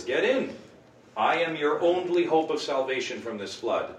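a mock rescuer shouting over the flood; rescuer in rowboat. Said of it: "The rowboat comes along and says".

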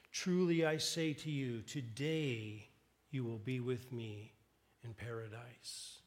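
a hint of a soft, gentle Jesus promising paradise; tender promise. Jesus on the cross to the thief, softly reassuring. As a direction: ease it out gently, almost hushed.

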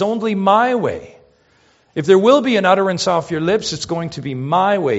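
lightly voiced commanding God; voicing God. Preacher voicing Yahweh to Israel, firm. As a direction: press "my", firm and high. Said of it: "Yahweh says".

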